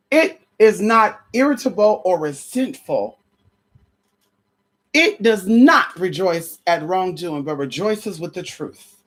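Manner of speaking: slow, solemn Bible reading; reading First Corinthians to the congregation, solemn; scripture reading. Acted. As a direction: savor each line of the verse.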